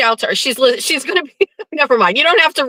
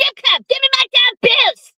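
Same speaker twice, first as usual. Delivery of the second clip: put-on very high cartoon kid voice; 11 semitones higher than usual. Asked to say strip club while discussing how to do it: Cartman voice. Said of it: "tell me to strip club".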